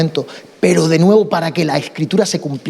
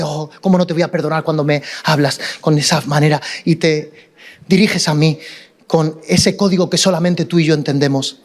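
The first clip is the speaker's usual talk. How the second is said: con ternura; 5 semitones lower than usual. Acted. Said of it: "la persona con ternura dice".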